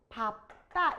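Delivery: 밥다 said slowly as "bap-tta"; a stopped p in 밥다, then tense "tta"; pronunciation demo. Shown as a demonstration. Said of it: "이렇게 할 거야".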